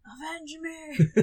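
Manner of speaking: slow, drawn-out dying cry, laughing; a hammy dying plea; overacted death scene. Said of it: "Willem Dafoe saying, "Avenge me".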